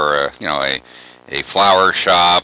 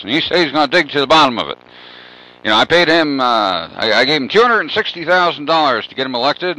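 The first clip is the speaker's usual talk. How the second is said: rancher woman; 6 semitones higher than usual. Retold or imitated. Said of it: "she goes".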